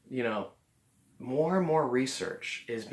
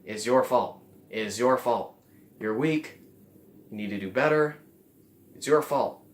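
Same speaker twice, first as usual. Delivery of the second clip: louder, stern blaming voice; the ego scolding you, louder and harsh; harsh inner critic; 6 dB louder than usual. Shown as a demonstration. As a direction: scold yourself without mercy. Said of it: "it's saying to you".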